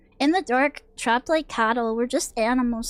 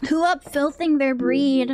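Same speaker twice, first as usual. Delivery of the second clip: mock game voice. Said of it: "Chill's voice acted Filth Breed".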